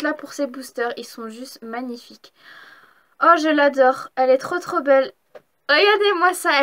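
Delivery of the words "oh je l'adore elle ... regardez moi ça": gushing. Real, not acted. Gushing over shiny card.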